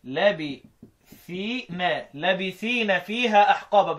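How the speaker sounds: لابثين with the first alif cut short; short vowel, no madd. Shown as a demonstration. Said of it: "القصر هنا يعني حذف المد".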